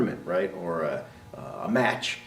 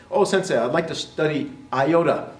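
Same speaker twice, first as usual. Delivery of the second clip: mock eager student; 4 semitones higher than usual. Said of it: "Lots of ways to mispronounce that".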